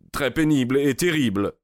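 tremblant, plus aigu et pressé, qui retombe; voix chevrotante. Acted. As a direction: laisser trembler la voix en accélérant. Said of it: "d'une voix chevrotante". (voix chevrotante, plus aiguë et rapide)

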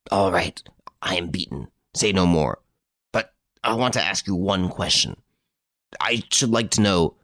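defeated, halting mutter. A narrator's reading. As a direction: mutter it as a beaten man. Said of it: "covered his face ... and muttered".

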